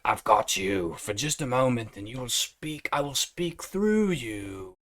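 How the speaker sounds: a lightly voiced sinister Satan, drawn out at the end; Satan's voice. Voicing Satan possessing someone.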